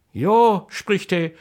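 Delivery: lively, rhythmic Kassel dialect verse; dialect poem recitation. Acted. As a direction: recite it like an old folk poet.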